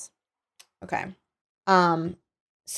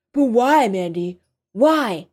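raised, distressed appeal; pleading; 4 semitones higher, 4 dB louder, slower than usual. Acted. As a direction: plead for a reason. Captive pleads for a reason.

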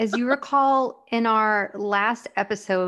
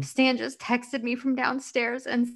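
getting emotional; 3 semitones higher than usual. Real, not acted. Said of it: "I'm getting a little emotional".

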